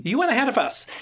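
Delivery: hammed-up Australian accent firing back. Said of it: "Oh, sorry, Australians. That was my best, best, uh, effort here".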